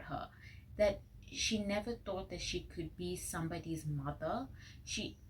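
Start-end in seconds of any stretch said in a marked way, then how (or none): 4.9-5.2 about to cry. Real, not acted. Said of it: "I'm really gonna cry".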